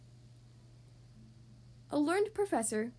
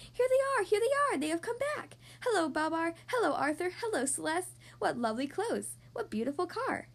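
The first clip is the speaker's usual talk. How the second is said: excited shouting; 5 semitones higher than usual. Acted. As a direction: cheer the homecoming from afar. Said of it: "running and shouting".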